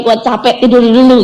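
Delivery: lightly acted worn-out soldier giving up; mock weary general. General begging off mid-battle, mock weary. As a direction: play a general bailing out, tongue in cheek. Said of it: "seorang jenderal lagi perang, tiba-tiba bilang".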